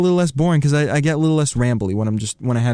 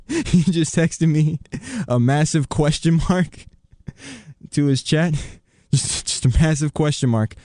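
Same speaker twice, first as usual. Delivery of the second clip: laughing; 3 semitones higher than usual. Real, not acted. Laughing at friend's text.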